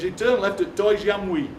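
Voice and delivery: slow, broad West Bromwich directions; West Bromwich accent. Retold or imitated. Local man directs a lost visitor, West Bromwich accent. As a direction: lay on the West Bromwich vowels. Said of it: "I was lost in West Bromwich".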